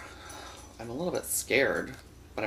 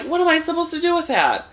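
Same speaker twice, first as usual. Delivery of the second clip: very high, loud disbelieving squeal; incredulous squeal; 7 dB louder, faster than usual. Retold or imitated. Quoting his reaction to the date's tiny penis, in a high incredulous squeal. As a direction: shriek it in comic disbelief.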